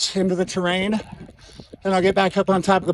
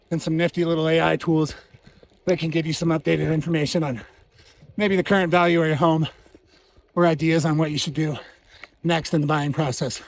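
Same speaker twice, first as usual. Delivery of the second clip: breathless from the climb; winded, talking between breaths; 2 semitones lower than usual. Real, not acted. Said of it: "Sorry I'm out of breath".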